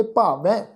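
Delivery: ਭਾਵੈ with a nasalised open "ain" ending; nasal dulavan ending. Shown as a demonstration. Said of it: "ਬਿੰਦੀ ਸਹਿਤ ਨਾਸਿਕ ਉਚਾਰਨ ਕਰਾਂਗੇ". (ਭਾਵੈ, ਦੁਲਾਵਾਂ ਵਾਂਗ ਨਾਸਿਕ ਉਚਾਰਨ)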